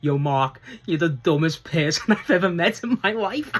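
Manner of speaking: a giggly retold jab; mock insult through laughter. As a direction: quote the put-down, cracking up halfway. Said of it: "Danny Garcia just goes".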